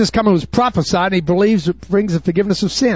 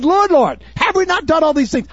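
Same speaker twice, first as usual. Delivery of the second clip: pleading cry; 8 semitones higher than usual. Acted. False believers pleading at judgment.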